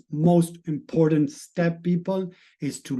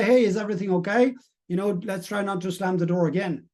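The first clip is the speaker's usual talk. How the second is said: calm reply. Retold or imitated. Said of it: "I just might say".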